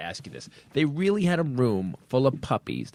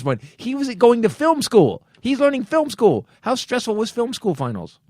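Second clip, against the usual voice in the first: higher, louder mock-serious teasing; 8 semitones higher, 4 dB louder than usual. Real, not acted. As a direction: tease him like a talk-show host. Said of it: "I'm making fun of him".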